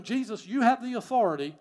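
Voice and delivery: loud, high, forceful proclamation of trust; emphatic declaration. Acted. Centurion yielding to Jesus' authority, loud and emphatic. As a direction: declare it boldly, punching the key words.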